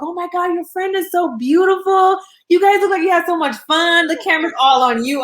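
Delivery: high, gushing mock fan voice. Viewers gushing over the friend after the show, high and excited. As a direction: gush like starstruck viewers.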